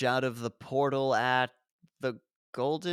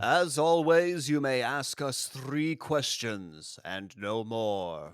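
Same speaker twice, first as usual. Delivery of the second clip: solemn Elder God; 2 semitones lower, slower than usual. Acted. Elder God addressing Raiden.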